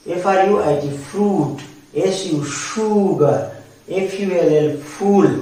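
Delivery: slow, careful spelling for learners. Shown as a demonstration. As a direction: spell out "সুগার" and "ফুল" slowly. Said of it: "ইউ থেকে হর্ষ sound আসে". (ধীরে ধীরে বানান)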